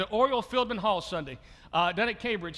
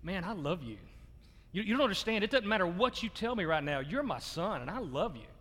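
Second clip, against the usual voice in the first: moved father. Retold or imitated. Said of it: "I just broke and I said".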